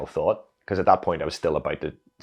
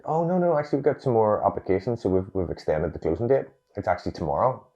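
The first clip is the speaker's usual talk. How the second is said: cheery phone reply; 5 semitones higher than usual. Retold or imitated. Quoting cheerful office reply.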